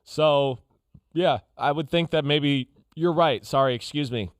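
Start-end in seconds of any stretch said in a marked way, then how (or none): 3.4-4.3 hiccups while talking; burping mid-sentence, hiccuping. Real, not acted. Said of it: "I'm hiccuping here and burping".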